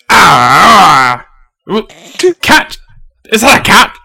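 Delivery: a slow, puzzled ogre spots a cat. Acted. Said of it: "the ogre goes".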